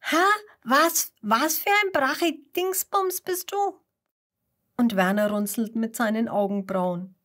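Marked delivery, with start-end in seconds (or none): 0.0-3.8 put-on much higher, baffled child voice; girl baffled by an unpronounceable name; puzzled surprise. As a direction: ask in bewildered disbelief. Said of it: "Vera schaut verwundert auf".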